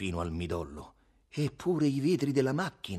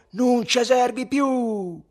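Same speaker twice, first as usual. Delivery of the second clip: very high, drawn-out yell; loud, stretched furious cry; enraged shout; 9 dB louder, much slower than usual. A narrator's reading. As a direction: hurl it out in a burst of rage.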